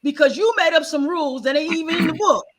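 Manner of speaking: lightly voiced granny scolding her granddaughter; a hint of a stern grandmother setting her straight. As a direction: tell her off like a blunt grandmother. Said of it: "She said".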